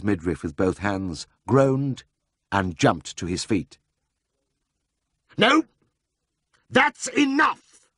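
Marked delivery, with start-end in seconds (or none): 5.4-7.9 high, slow outcry; crying out. A narrator's reading. Siegfried after tasting burnt potatoes, crying out high. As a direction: cry out as if poisoned. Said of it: "he cried".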